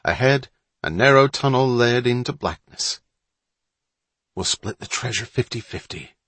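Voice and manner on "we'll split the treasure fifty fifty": understated, solemn proposal; soberly businesslike; very serious voice. Acted. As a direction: make a serious deal, softly. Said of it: "in a very serious voice".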